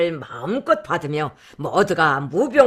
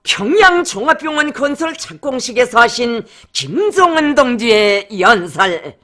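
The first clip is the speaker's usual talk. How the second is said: declaimed title; 6 semitones higher, 4 dB louder than usual. Acted. Announcer reads the speech title.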